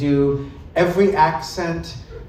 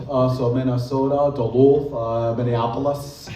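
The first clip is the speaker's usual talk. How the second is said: lightly done Minnesota accent, rounded vowels; 4 semitones lower than usual. Shown as a demonstration. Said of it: "the vowels get rounded out".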